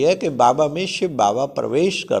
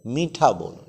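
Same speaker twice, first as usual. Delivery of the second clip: slow gentle advice; slower than usual. Retold or imitated. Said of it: "क्यों बाबा कहते".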